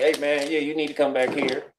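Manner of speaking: easygoing, unbothered invite; real nonchalant. Retold or imitated. Jeff calling him over to the back, real nonchalant. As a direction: toss it off like it's nothing. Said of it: "He said it real nonchalant".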